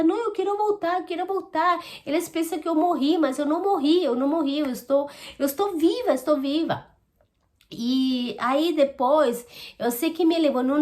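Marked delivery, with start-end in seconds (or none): 0.0-6.9 high-pitched pleading, not shouted; retold desperation. Woman retelling how she begged while being carried up, desperate. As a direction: imitate a desperate plea at usual volume. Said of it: "eu ia gritando, eu ficava assim desesperada".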